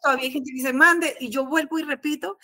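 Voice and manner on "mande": high, louder mock "Mande"; imitated puzzled query. Mexicans not understanding her after eleven years, imitated puzzled query. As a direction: throw it out high, as someone who didn't catch it.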